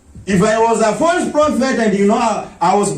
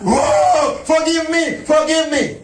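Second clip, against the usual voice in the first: high, pleading mock cry for forgiveness; lightly hammed-up begging; a worshipper crawling at the altar, lightly mocked; mock wailing; 5 semitones higher than usual. Mimics women crying at altar.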